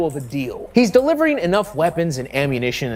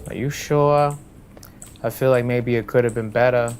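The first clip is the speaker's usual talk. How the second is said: put-on boxer voice with a thick accent; Mike Tyson; 6 semitones lower than usual. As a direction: play an unsure actor fishing for reassurance.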